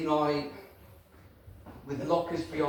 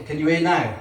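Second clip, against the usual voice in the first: calling out to the back; 6 dB louder than usual. Real, not acted. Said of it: "I'm not shouting".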